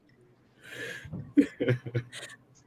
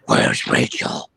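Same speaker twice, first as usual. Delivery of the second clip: slow, whispered Batman growl; 5 semitones lower, 4 dB louder, slower than usual. Pretend. Batman movie line quoted.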